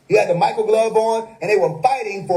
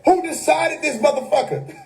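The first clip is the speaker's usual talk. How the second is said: higher-pitched mock outrage, no real volume; retold yelling; 6 semitones higher than usual. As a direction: imitate a streamer protesting at his screen. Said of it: "yelling at the screen".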